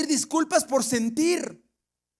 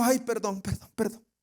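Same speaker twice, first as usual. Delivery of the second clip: acted choked-up apology, trailing away softer; tearful apology; 2 semitones lower, 4 dB quieter, faster than usual. Preacher imitates someone apologising for crying, acted tearful fading voice. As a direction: mumble sorry as if starting to cry. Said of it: "se le quebró la voz y empezó a llorar".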